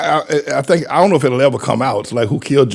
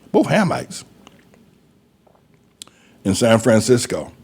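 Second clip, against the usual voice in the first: hushed conspiratorial aside; whisper; 4 semitones lower, 3 dB quieter than usual. Real, not acted. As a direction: drop to a whisper as if sharing a secret.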